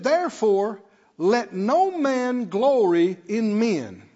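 deliberate preacher reading out a verse; slow down and stretch the verse; emphatic scripture reading. Real, not acted. Preacher reads Paul's verse to congregation, emphatic scripture reading.

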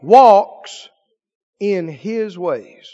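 reading the psalm with rising fervour; scripture reading. Acted. Preacher reading Psalm 128 aloud to the church. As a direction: proclaim the verse to the congregation.

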